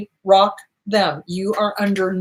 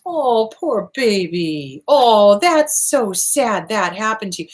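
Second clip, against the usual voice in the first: put-on slow, syrupy "poor baby"; slow hollow cooing sympathy; mock sympathy; slower than usual. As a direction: fake pity dripping with show. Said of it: "Sympathy is".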